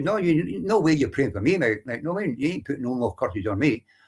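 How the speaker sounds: ordinary talk, nothing marked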